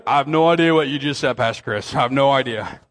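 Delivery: a hint of a puzzled churchgoer owning up; confused listener. Pastor voicing a confused listener, mildly baffled. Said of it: "you might be like".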